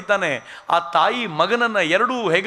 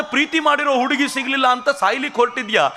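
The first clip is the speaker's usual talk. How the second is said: harsh scolding; 6 semitones higher than usual. Retold or imitated. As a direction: snap back at him to shock him. Speaker scolds suicidal caller.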